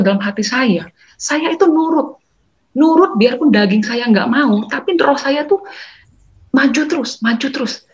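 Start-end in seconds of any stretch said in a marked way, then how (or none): 1.2-7.8 high, slow, ringing witness; fervent testimony. Real, not acted. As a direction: proclaim it with rising fervor. Testimony rising to fervor. (kesaksian yang penuh semangat)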